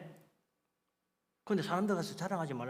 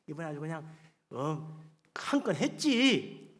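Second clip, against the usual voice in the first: mock boasting. Preacher imitates man bragging of his deal, mock boast. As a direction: imitate someone savouring their own success. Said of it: "자기 자랑 막 하는 거야".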